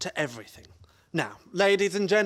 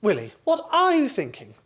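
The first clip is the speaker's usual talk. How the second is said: louder, urgent plea to drop the gun; alarmed plea; 5 semitones higher, 5 dB louder than usual. Acted. Jack urging Willie to put the gun away, loud and alarmed. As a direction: talk him down fast. Pleading with gunman.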